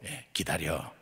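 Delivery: muttered low to himself; a low private aside inside his head; inner voice. Retold or imitated. While the stranger keeps glancing over, low inner voice. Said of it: "속으로".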